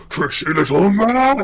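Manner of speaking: loud high scream. A narrator's reading. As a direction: yell it out in a panic. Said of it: "and just screams".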